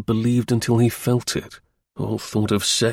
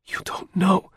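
passionate plea; 9 semitones higher than usual. A narrator's reading. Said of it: "she said in a passionate whisper".

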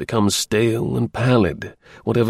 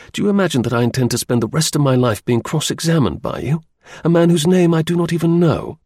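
angry; 4 semitones higher than usual. Acted. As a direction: tell him off with growing contempt. Chertsey insults the visitor.

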